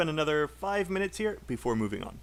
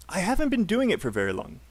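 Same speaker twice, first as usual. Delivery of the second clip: quick natural model read; model sentence; 4 semitones higher, faster than usual. Shown as a demonstration. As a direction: say it brisk and connected. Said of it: "let's listen and say".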